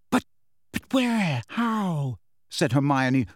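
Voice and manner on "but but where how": high, stunned questions; shocked, frightened. A narrator's reading. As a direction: ask in alarm, voice pitched high. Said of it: "whose face was white".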